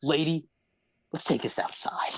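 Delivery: kobold creature voice. Voicing a grappling kobold who answers the lady: Brobold kobold voice. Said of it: "you hear Brobold go".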